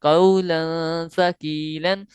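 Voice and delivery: very slow melodic recitation; tajweed recitation. Shown as a demonstration. Teacher reciting the phrase for students, slow recitation. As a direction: chant the phrase slowly twice. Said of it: "तीन चीज़ें".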